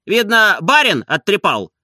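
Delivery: high, loud, jeering coachman; cheeky coachman. A narrator's reading. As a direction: needle the old man, pitched high and loud. Coachman mocking.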